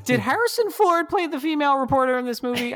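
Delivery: laughing mock question.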